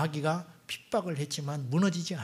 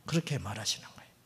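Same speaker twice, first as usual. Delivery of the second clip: quick whisper; 5 semitones lower, 6 dB quieter, faster than usual. Real, not acted.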